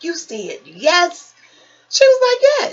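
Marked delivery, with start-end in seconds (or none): 0.0-1.3 slow disbelief. Retold or imitated. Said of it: "I was like".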